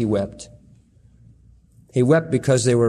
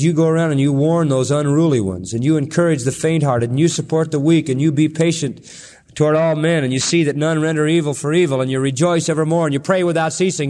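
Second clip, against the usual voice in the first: louder, driving run of commands, fast at the end; fervent preaching; 3 dB louder, faster than usual. Acted. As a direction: pound out each command to the flock. Listing Paul's commands.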